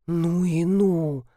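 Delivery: slow, low, awed exclamation; gasping. A narrator's reading. Жорж marvels at the wolf story, slowly gasping in awe. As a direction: breathe it out in amazement. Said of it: "ахнул Жорж".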